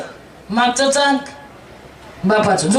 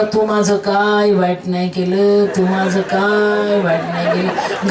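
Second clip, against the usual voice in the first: slow, low, laughing tenderness toward the full bottle; fond drunk to a bottle; 5 semitones lower, slower than usual. Retold or imitated. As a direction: coo to the bottle you love, slowly.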